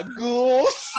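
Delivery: laughing, deadpan "Ghouls"; half-laughed impression of a deadpan Charlie; a touch of Charlie's flat one-word answer; quoting Charlie. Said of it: "and he's like".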